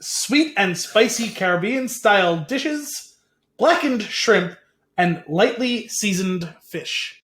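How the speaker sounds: each word spelled out slowly; deliberate, slow correction; slow and clear. Shown as a demonstration. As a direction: repeat it slowly so he hears it. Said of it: "I said".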